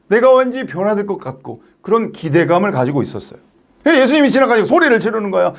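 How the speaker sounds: usual speaking voice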